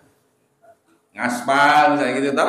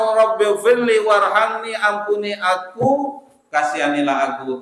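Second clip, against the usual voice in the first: pleading prayer; 5 semitones higher than usual. Retold or imitated. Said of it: "kita minta".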